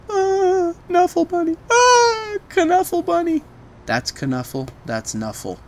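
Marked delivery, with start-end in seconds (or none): 0.1-3.4 put-on high, delighted little-girl cry; joyful reunion. Toddler greeting her lost bunny, high and delighted. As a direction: squeal with relief at finding her toy.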